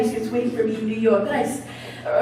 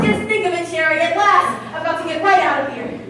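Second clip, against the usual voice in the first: put-on girlish squeals; 4 semitones higher than usual. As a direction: burst out the big news like a schoolgirl. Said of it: "your girlish squeals".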